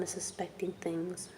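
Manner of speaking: retold whisper of a man warning her, breathy and unvoiced; hushed whisper. Abuser warning the girl her mom suspects, whispered. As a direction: whisper it as if someone might overhear. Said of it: "he was like".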